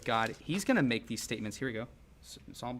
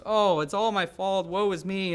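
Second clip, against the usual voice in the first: higher, louder, slow mock wail of self-blame; mock self-pity; 6 semitones higher, 7 dB louder than usual. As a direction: overplay the sorry-for-myself sigh. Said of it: "So now David goes".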